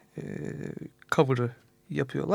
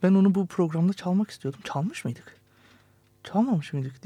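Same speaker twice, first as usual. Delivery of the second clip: retold own musing; 4 semitones higher than usual. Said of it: "Ben de demiştim ki".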